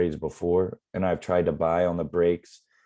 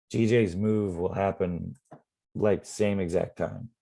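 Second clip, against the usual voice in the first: hoarse, losing the voice. Real, not acted. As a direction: voice going hoarse, strained. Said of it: "losing my voice here".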